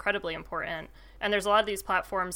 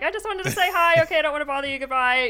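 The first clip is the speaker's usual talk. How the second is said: timid polite voice; 9 semitones higher, 9 dB louder than usual. Retold or imitated. Mimicking timid people approaching.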